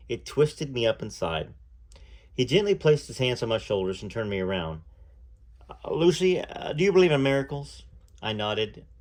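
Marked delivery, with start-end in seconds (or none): 5.7-7.8 shy impression of a famous singer. Acted. The singer tells Lucy he kept thinking of her, hesitant. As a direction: stammer it out like a nervous young singer.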